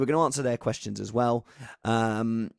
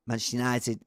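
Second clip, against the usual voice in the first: lightly voiced quick Manchester United; Gary Neville impression; 3 semitones lower, faster than usual. Host imitating Gary Neville for viewers, lightly voiced. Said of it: "my favourite impression of Gary Neville".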